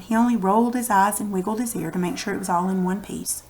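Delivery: mild letdown after the excitement; disappointed. Shown as a demonstration. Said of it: "and then they're disappointed".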